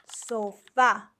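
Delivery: Sofá stressed on its final syllable, FÁ; stress on last syllable. Shown as a demonstration. Teacher giving the quiz answer, Sofá stressed on its last syllable. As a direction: put the emphasis at the end of Sofá. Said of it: "The stress is on the last syllable".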